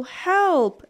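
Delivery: high loud cry for help; howling for help. A narrator's reading. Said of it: "Wilf longed to howl".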